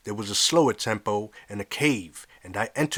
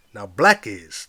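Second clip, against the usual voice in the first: loud preacher shout; 3 semitones lower, 6 dB louder, slower than usual. Acted. Preacher shouting to his congregation, loud. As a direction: shout it from the pulpit. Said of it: "the preacher shouted".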